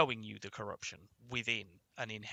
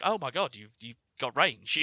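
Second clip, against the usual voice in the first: mock amazement; 5 dB louder, slower than usual. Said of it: "was like".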